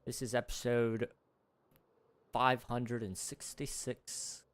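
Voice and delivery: mock British video-opening voice; British YouTuber intro. Streamer recalling British Minecraft YouTubers, put-on British intro. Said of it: "watched a lot of British Minecraft YouTubers".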